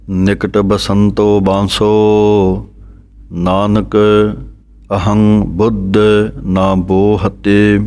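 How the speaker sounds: measured recitation of the verse, pausing after each phrase; scripture recitation. Shown as a demonstration. Teacher reciting scripture for students, measured. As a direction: recite it like the teacher reading Gurbani. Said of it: "ਪਾਠ ਆਪ ਜੀ ਨੇ ਸ਼ਰਵਣ ਕੀਤਾ ਹੈ".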